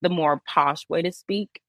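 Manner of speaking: lightly put-on posh British; forward-placed posh British vowels; posh British accent. Shown as a demonstration. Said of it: "that's kinda how the British accent is".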